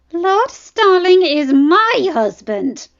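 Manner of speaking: spat through clenched teeth. Acted. Dany spits at the princess that John is her husband, slow and furious. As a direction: bite out each word with fury. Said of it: "spat through clenched teeth".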